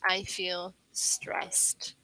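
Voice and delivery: slow whisper of "I feel stressed"; whispered example. Shown as a demonstration. Teacher whispers an example of stress the feeling. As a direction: breathe it out like a tired sigh. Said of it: "stress, the feeling".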